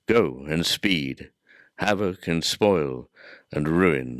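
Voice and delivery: measured, formal reading of epic verse; solemn Miltonic declamation; poetry recitation. Acted. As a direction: recite it as grand verse, phrase by phrase with weighty pauses. Reads Paradise Lost aloud.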